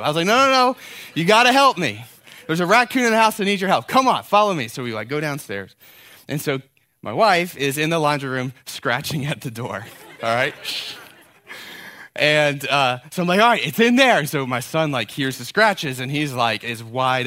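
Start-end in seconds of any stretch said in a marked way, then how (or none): 0.3-4.7 much higher, louder urgent pleading; hammed-up emergency; fake panic. Faking panic to son. 13.4-14.2 higher, louder tense announcement; hammed-up dread; mock tension. Fake raccoon behind door.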